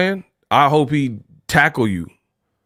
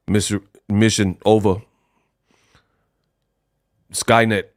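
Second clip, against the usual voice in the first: Arnold; 6 semitones lower than usual. Retold or imitated. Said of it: "Arnold was like".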